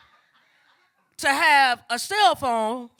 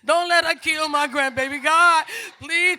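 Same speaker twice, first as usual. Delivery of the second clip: higher, louder mock-desperate plea; retold prayer, urgent and raised; pleading; 4 semitones higher, 6 dB louder than usual. Mother pleads to God for her grandbaby, urgent retold plea.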